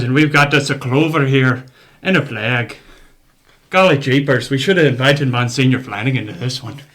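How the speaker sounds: hammy bad Irish accent, loud; overdone Irish brogue. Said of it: "obnoxiously bad Irish accent".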